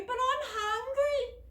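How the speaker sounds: put-on high, slow, whining boy; whiny wail. A narrator's reading. Hungry stranded boy wails to his friends, whining. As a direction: drag out the complaint like a crying child. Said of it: "wailed Henry".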